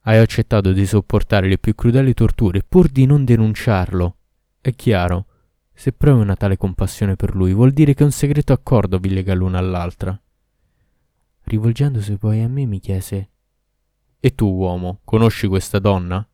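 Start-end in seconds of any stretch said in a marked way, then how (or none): 0.1-10.2 loud furious demon; raging Ifrit. Acted. Ifrit raging at the girl's secret bond, loud. 14.2-16.3 louder, demanding demon; menacing Ifrit. Acted. Ifrit interrogating the man, louder and demanding.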